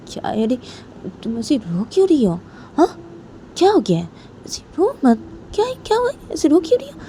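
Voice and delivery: acted worry over someone crying; concerned coaxing. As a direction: gently ask what is wrong, voice rising. Sonam asks crying Poonam what happened.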